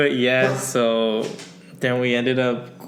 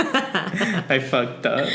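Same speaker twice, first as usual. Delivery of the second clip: laughing; 5 semitones higher, much slower than usual. Real, not acted. Laughing at herself.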